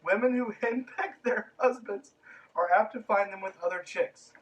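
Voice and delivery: mock-solemn closing quote, cracking up; laughing through the quote. Shown as a demonstration. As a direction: read it out barely holding back laughter. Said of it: "closing out this episode with the quote".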